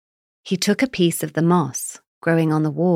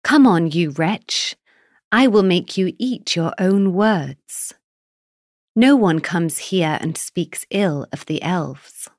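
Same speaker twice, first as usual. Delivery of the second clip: yelling. Acted. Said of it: "He ran forward and yelled".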